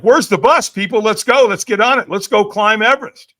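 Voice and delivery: fired up, ready to take on anything; pumped up. Retold or imitated. After the firewalk, rallying the crowd with excitement. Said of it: "I'm like".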